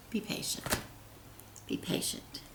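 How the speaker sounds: fading to a whisper; soft self-reminder. Real, not acted. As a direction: whisper the advice to yourself. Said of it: "repeats advice softer".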